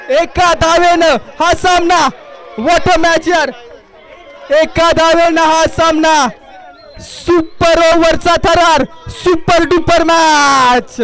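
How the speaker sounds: high, slow and drawn out; excited commentary. Real, not acted. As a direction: stretch the words with thrill. Live match result call. (थरारलेले समालोचन)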